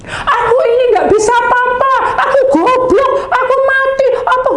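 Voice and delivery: high, loud, strange wailing; tormented voices. Retold or imitated. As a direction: wail as a despairing soul. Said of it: "teriakan orang-orang itu". (ratapan putus asa bernada tinggi)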